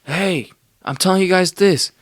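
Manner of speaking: hammed-up yelling at passers-by; mock screaming. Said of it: "I start screaming".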